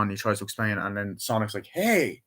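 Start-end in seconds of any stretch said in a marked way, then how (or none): 1.7-2.2 high-pitched drawn-out hello; imitated cartoon greeting. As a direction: play a cartoon hero piping up. Acting out Sonic's greeting.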